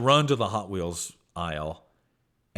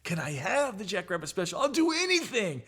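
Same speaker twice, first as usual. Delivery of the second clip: put-on very high, whiny kid plea; hammed-up pleading, climbing higher and higher; begging, pleading; 14 semitones higher than usual. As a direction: beg Mom desperately in a squeaky child voice. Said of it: "I beg it and I'm pleading".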